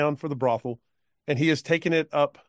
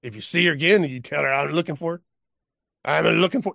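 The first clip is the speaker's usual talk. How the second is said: put-on drunk cowpoke; 3 semitones higher, faster than usual. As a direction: slur it like a tipsy old man. Cowpoke sends a message.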